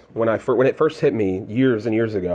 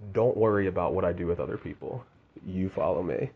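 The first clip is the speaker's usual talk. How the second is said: softer, calm and tender; God speaking gently; 4 semitones lower, 7 dB quieter than usual. Retold or imitated. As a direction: reassure like a loving God. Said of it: "God said".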